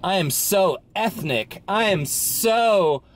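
mock self-important. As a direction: stretch it out as if showing off. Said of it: "They're just signaling to you".

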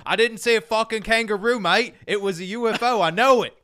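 high, loud Australian protest, hammed up; indignant Australian. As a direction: insist in an exasperated Australian accent. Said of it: "And he's like".

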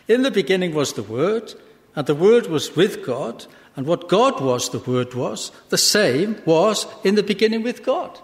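emphatic, measured Bible reading; scripture reading. Acted. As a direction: read the verse out to a congregation. Reads scripture aloud.

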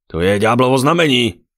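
loud, high denouncing shout; alarmed, dramatic proclamation; horrified cry. A narrator's reading. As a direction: cry out in pious horror. Paladin horrified by the sight.

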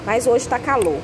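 ordinary delivery

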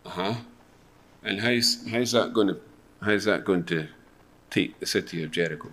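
low-key, halting doubt; sceptical questioning. Acted. General doubting Joshua's battle plan, hesitant scepticism. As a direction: stumble doubtfully through the question.

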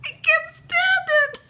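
loud, very high tearful squeal; crying with delight, words squeezed out through laughs; real happy sobbing squeal; too choked to talk. Real, not acted. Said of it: "Oh, I can't even talk".

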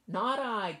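high quacky duck voice; quacking duck. A narrator's reading. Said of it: "quacked the duck".

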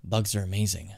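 understated, hushed bug enthusiast; lightly voiced bug collector. Bug collector confiding in Jimin about deals at night, lightly voiced and quiet. Reads game character's dialogue aloud.

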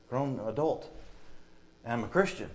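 ordinary talk

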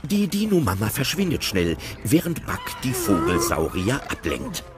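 plain reading voice

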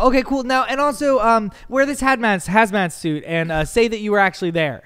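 high, eager producer pitch; Sacha Baron Cohen prank voice. Retold or imitated. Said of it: "he will go".

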